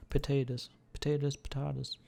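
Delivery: mock-saying "potatoes" high and loud, varying the vowel; playful pronunciation. Playing with how potatoes is said.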